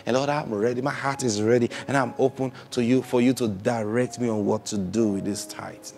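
spoken prayer. Shown as a demonstration. Pastor models a tithing prayer for the congregation, earnest prayer. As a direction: pray it like you mean it. Pastor praying aloud as example.

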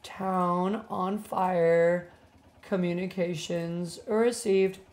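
very slow, word by word like tapping code; slow deliberate. Shown as a demonstration. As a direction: drag out each word as you send it. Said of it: "should I just say town".

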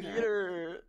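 high call of a cartoon wife; Lois Griffin voice. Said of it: "Lewis Griffin".

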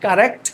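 কারেক্ট with an unaspirated hard k; mistaken pronunciation. Shown as a demonstration. Teacher shows what learners wrongly say, কারেক্ট with unaspirated k. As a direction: say কারেক্ট with no puff of air on the k. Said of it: "this is not correct".

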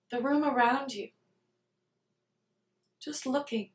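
calm meditation guide, unhurried, with long pauses between phrases; guided meditation. Real, not acted. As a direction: lead them gently through it, leaving space after each phrase.

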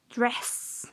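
"Dress" whispered with no voice; whispered model word. Shown as a demonstration. Teacher whispering the word for students to copy. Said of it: "You pronounce".

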